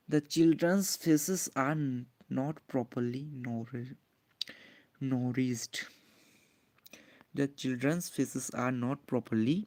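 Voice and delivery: slow, spaced dictation for notes; slow classroom dictation. Shown as a demonstration. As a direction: dictate the answer word by word. Teacher dictates the answer slowly.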